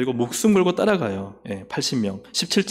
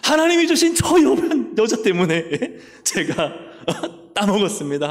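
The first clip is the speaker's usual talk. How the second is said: higher, laughing excuse; Adam blaming; 5 semitones higher than usual. Acted. Adam excusing himself before God, higher and laughing. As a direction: shift the blame with a chuckle. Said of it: "아담이 뭐라 그래요".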